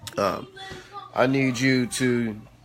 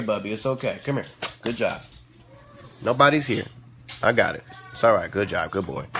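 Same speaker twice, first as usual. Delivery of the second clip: lower, gentle reassurance; soothing a dog; 4 semitones lower than usual. Real, not acted. Soothing the dog after it reacts.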